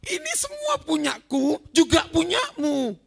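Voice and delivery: a father coaxing his sulking son back in; gentle father. Retold or imitated. Father gently reasoning with his elder son, lightly voiced.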